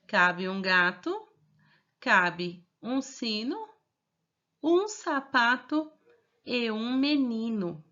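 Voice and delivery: put-on slow, careful model reading for children; slow reading aloud. Shown as a demonstration. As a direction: read it slowly so the kids can follow. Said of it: "eu vou ler novamente". (leitura lenta e pausada para as crianças)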